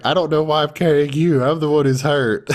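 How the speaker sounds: exasperated grumble; indignant. Retold or imitated.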